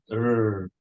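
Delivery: "er" with a curled-back rolled r; Indian retroflex r. Shown as a demonstration. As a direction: roll the r with the tongue curled back. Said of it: "the retroflex trill R sound".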